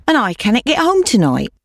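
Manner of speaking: high, desperate plea; pleading old woman. A narrator's reading. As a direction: lift the plea high in despair.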